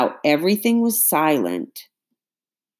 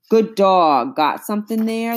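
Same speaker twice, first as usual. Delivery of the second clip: eager shout; 6 semitones higher than usual. A narrator's reading. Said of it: "Beckworth shouted".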